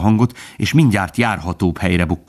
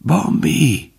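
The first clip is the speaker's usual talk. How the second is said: high call of a name; 8 semitones higher than usual. A narrator's reading. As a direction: call Bambi from afar. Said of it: "az övéi közül szólította valaki".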